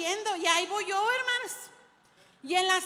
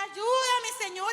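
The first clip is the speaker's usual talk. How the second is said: louder, higher opening, easing off; retold cry for help; 3 semitones higher, 3 dB louder, slower than usual. Preacher recalls calling on the Lord during the chase, retold cry. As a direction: mildly re-enact a yelled plea to God. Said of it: "yo gritaba y decía".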